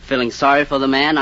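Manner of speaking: ordinary delivery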